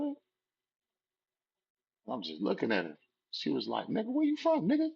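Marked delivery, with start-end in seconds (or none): 3.9-4.9 much higher, demanding yell; mock aggressive yell. Girl repeats her challenge, high aggressive yell. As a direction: bark the question like a threat.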